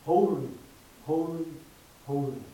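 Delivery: loud cry of holy, fading at the end; calling out holy. Acted. Preacher quoting the angels, loud call. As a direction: proclaim it like angels. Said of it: "heavenly beings call out".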